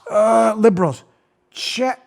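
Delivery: lightly voiced baffled voter; hesitate, then drag out the puzzled question; facetious confusion. Host imitating voters stumped by a check box, halting mock confusion. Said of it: "I'm being facetious here and silly".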